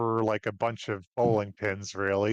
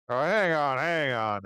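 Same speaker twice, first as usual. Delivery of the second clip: barman; 4 semitones higher than usual. Acted. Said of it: "barman, uh, steps in".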